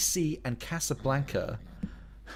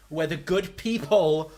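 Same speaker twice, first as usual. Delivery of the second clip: loud, slow, high-pitched indignant rant; outraged rant; 7 semitones higher, 7 dB louder, much slower than usual. Real, not acted. Streamer ranting to chat about being denied Space Jam, loud and outraged. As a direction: stretch it out in disbelief.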